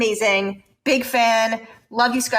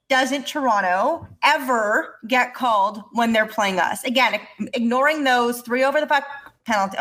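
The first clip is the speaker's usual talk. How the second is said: mock rant. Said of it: "And scene".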